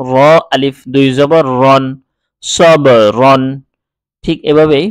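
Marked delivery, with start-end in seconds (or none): 2.4-3.4 সব রন drawn out slowly, ব bounced; slow Quranic recitation. Shown as a demonstration. Teacher recites the joined word for students. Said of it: "বার মধ্যে কলকলার উচ্চারণ করতে হবে".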